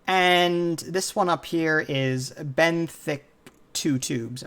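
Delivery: Benthic Two Tubes said slowly and tentatively; careful name reading. Real, not acted. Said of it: "if I mispronounce, I apologize".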